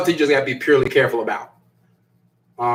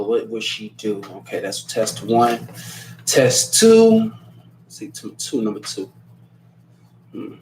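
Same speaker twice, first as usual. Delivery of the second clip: low, halting thinking-aloud mumble; scheming to himself; 4 semitones lower than usual. Acted. Partner plotting tests for the relationship, muttering low to himself. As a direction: work out a sneaky plan under your breath.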